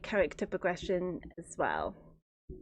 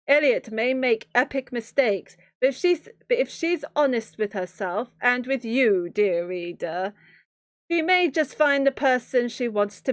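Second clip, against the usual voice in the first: YA movie trailer narrator; 3 semitones higher than usual. Acted. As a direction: sell the blurb like a teen movie trailer. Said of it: "What do Y A movie trailer narrators sound like?".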